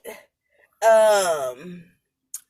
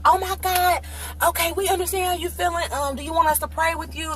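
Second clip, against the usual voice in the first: higher-pitched, concerned fussing; sympathetic nurses; 7 semitones higher than usual. Retold or imitated. Nurses offering crying patient prayer, high sympathetic voice. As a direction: comfort the patient in a raised, caring voice. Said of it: "They were like".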